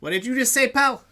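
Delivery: loud, high menacing challenge; rising threat, squaring up; threatening orc. Acted. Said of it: "He's like".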